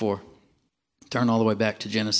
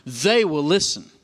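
"They" punched high and stretched out; slow, emphatic line with all the weight on "They"; stress on THEY; 3 semitones higher, 4 dB louder, slower than usual. Shown as a demonstration. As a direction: hammer "They", then let the rest fall. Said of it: "with the emphasis on the word they".

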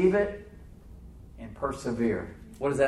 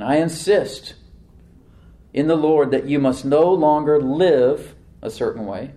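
insistent; 6 dB louder, slower than usual. Retold or imitated. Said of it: "with immovable firmness".

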